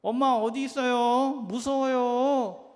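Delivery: high, slow, frightened little rabbit calling for mom; scared little rabbit. Acted. Lost rabbit calling for its mother, small and frightened. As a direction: plead for mommy like a lost scared bunny. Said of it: "토끼는 무서워서 울고 있었어요".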